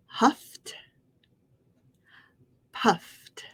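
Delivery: Huffed and puffed modelled with a final T; T sound ending. Shown as a demonstration. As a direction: say Huffed, puffed as one syllable each, ending in T. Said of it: "Follow me".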